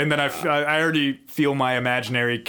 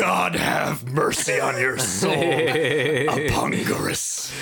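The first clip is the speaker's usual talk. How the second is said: slow, grave royal sentence; laying a curse; slower than usual. Pretend. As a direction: pronounce a solemn final judgment. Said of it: "I'd be like".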